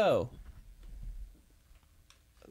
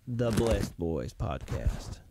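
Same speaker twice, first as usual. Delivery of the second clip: wrestling promo; 5 semitones lower than usual. Acted. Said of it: "I'm cutting a promo".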